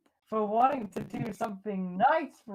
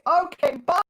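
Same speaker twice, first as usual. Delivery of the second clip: high, loud laughing farewell; laughing goodbye; 11 semitones higher, 9 dB louder than usual. Real, not acted. Player flees the robot deer, laughing loudly. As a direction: blurt it out and flee laughing.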